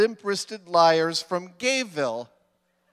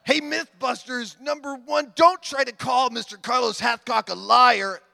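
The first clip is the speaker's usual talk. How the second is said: angry redneck voice; 6 semitones higher than usual. Retold or imitated. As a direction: play an irate gun nut writing in. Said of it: "guessing what his voice sounded like".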